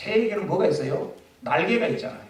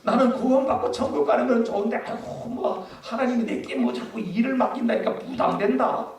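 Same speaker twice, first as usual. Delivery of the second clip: playful mock complaint, pitch climbing; grumbling believer; 3 semitones higher than usual. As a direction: whine like a reluctant old churchgoer. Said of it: "뭐 이러는 분이 계시는지".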